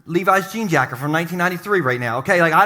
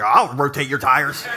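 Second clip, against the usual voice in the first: suggestive; 7 semitones lower, slower than usual. Pretend. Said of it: "We're like".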